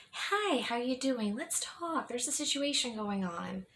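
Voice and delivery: high, sugary mock bedside manner; mock-friendly doctor. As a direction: sweeten it like the doctor she wished for. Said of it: "Like, no".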